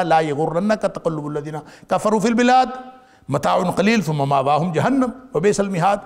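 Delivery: brisk Arabic recitation, a little fast; fast, fluent Quranic recitation; quick Quran recitation. Acted. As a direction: recite the verse quickly and evenly. Quotes a Quran verse in recitation.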